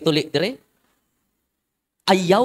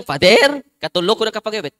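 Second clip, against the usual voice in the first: plain confession demo; 3 dB louder than usual. Shown as a demonstration. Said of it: "Isulti lang".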